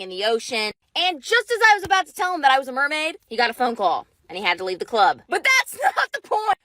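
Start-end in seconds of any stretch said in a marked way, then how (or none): 5.3-6.6 breaks into a laugh mid-line. Real, not acted. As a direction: giggle through the words. Laughing at her own story.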